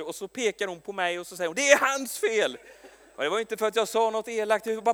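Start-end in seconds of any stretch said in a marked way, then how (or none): 1.6-2.6 slow, laughing blame; a teasing, laughing finger-point; laughing accusation. Retold or imitated. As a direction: say it through a laugh. Crying colleague blames him jokingly.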